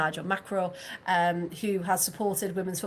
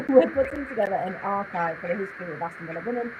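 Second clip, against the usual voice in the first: muffled, boxy fishbowl sound; sounding like inside a glass bowl. Real, not acted. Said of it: "You sound like you're in a fishbowl".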